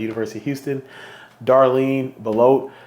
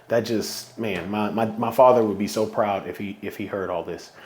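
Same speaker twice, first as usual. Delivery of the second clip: getting emotional; 2 semitones lower, 4 dB quieter than usual. Real, not acted. Thinking of his late father, voice softening with emotion. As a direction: voice sinking soft as he chokes up. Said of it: "I'm trying not to get emotional".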